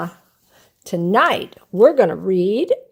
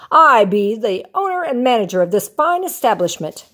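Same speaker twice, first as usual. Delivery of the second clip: proudly; 3 semitones higher, 3 dB louder than usual. Acted. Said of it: "Mister Krabs said proudly".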